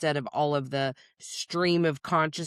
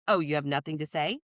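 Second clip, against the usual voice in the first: mocking taunt; 2 semitones lower than usual. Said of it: "with the audacity to say".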